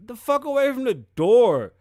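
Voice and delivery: loud, high mock yell; panicked yell. People inside hiding from Dog, hammed-up panicked yell. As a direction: yell at everyone to get away from the door. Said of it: "everybody in the house was like".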